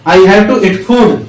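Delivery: slow, careful English model line; "I have to speak" drawn out word by word for learners; slow drill. Shown as a demonstration. Teacher models English for Hindi-speaking students, slow and careful. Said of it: "first form में आपको बोलना है".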